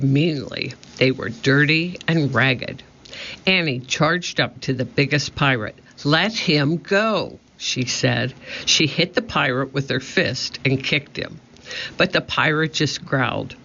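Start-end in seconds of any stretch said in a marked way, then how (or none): 6.0-7.4 defiant demand. A narrator's reading. Annie confronting the biggest pirate.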